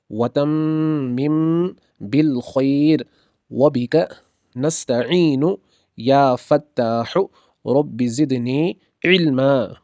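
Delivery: slow, measured recitation; recited dua. Acted. Teacher leads the students in a slowly recited dua. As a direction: draw out each phrase prayerfully.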